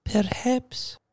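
high, slow and hesitant; drawn out, unsure; slow restrained voice. Acted. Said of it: "she said slowly".

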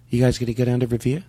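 attempted Boston accent; practising a Boston accent in speaking voice. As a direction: copy the coach's Boston accent as a question. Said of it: "let's practice our Boston accent".

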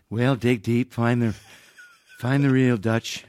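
understated presidential impression; lightly voiced Reagan, halting; Ronald Reagan. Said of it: "not do a hokey imitation".

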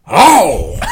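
pained high yelp into a laugh; just hit in the groin. Pretend. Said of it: "make the noise of what it would sound like".

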